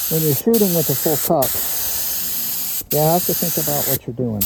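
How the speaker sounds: muffled, echoing inside a respirator mask; talking through a mask. Real, not acted. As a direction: speak through a paint mask. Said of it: "I got this mask on, it's kinda reverberating".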